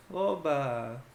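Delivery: flat, sarcastic "oba" with no real joy; ironic oba. Shown as a demonstration. Teacher shows "oba" as sarcastic disappointment, flat and ironic. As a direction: say "oba" dryly, as a let-down mock cheer. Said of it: "pelo tom de voz, né, sendo irônico".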